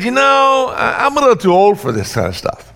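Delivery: high, loud mock protest from an old man; preacher voicing an old objector, pitched high with shouts; reluctant old man. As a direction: ham up a grumbling old man who is too old for this. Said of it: "Nobody said".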